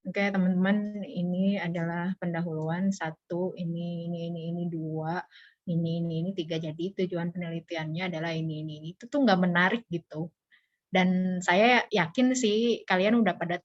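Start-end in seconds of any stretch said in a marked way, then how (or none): 0.1-8.9 soft, trailing, filler-laden presenting; dull presentation mumble. Shown as a demonstration. Teacher mocking a bored student presentation, soft and flat. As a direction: mumble through slides without energy. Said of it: "kalau kalian presentasi gitu".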